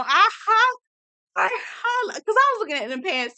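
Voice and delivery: squealing high through laughter; high giggly rush; real laughter, voice up; laughing. Real, not acted.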